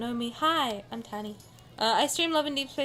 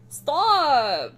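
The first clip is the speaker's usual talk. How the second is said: protesting shout; 4 semitones higher, 7 dB louder than usual. Real, not acted. Protesting at the game character.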